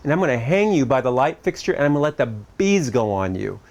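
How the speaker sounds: retold stern scolding, lightly acted; a touch of Captain Bligh menace; mock angry threat. Dad threatening his misbehaving five-year-old, mock angry. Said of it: "I've got this angry look on my face and tone of voice".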